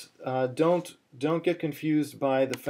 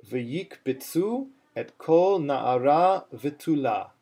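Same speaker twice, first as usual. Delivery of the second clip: slow spoken reading, accents on "V'yikbitzu" and "v'tula"; careful teacher's reading, "kol" picked out; phrase with its accents; slower than usual. Shown as a demonstration. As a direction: model "V'yikbitzu" deliberately, lifting its end. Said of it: "good one to do step two on".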